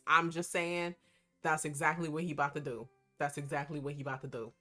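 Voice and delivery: loud and fast hype talk; hyped. Real, not acted. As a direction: rattle it off, all fired up. Hyped rant about Xavier.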